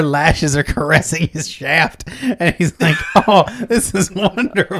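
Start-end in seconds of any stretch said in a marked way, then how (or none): 3.3-4.8 higher, laughing delight; mock rapture. Customer enjoying the madam's trick, in mock rapture. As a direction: swoon over it playfully.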